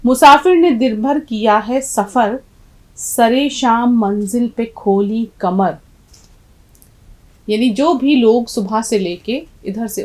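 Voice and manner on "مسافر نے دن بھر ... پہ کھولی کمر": slow, measured verse reading, strong opening; poem recitation. Acted. Teacher reading the poem to students, slow measured recitation. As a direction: recite the couplet slowly, stretching the words.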